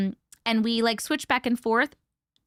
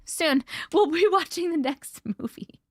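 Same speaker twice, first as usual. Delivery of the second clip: giggly whisper; 7 semitones higher than usual. Acted. Playful aside to viewers.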